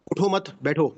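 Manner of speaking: "اٹھو مت" said as one phrase, then "بیٹھو"; group مت with اٹھو: don't get up, sit; pause after مت. Shown as a demonstration. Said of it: "اپنی صرف ٹون کو چینج کر لیں گے". ("اٹھو مت" ایک ساتھ، پھر وقفہ، پھر "بیٹھو")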